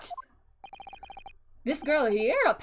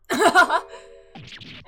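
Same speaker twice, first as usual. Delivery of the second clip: loud, higher cheeky cackle; mischievous laugh; 5 semitones higher, 10 dB louder than usual. Acted. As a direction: laugh as you vanish in smoke. Thief laughs as she vanishes.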